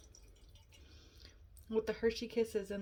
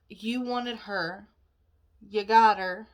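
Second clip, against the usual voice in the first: fed up, rising loud; exasperated; 7 dB louder than usual. Real, not acted. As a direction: vent it, exasperated. Angry rant about roommate.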